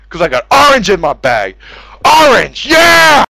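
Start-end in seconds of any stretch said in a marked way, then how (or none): 2.1-3.2 high, loud whoop; hammed-up victory yell; triumphant cheer. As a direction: cheer like you just looted. Triumphant shout.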